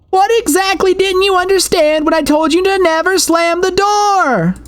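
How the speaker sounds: high, cold scolding mother's voice; frigid scolding mother. A narrator's reading. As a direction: scold like an icy strict mom. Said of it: "chastised me with the same frigid voice".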